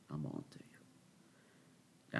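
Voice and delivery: slow, hushed, breathy menace; creepy whisper. Acted. To the viewers, a slow mock-sinister whisper. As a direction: whisper it like a threat. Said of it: "repeats to viewers".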